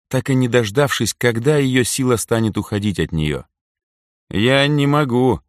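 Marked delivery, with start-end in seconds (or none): 4.3-5.4 lost. A narrator's reading. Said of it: "потерянно произнёс Митька".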